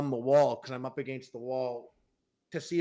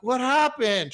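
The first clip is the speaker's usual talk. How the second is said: high, loud mock-innocent question; retold attempt to sound clueless, pitched way up; acting unafraid; 8 semitones higher, 5 dB louder, slower than usual. Boyfriend hiding his scare from girlfriend, high mock-innocent voice. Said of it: "Trying to act like I wasn't scared".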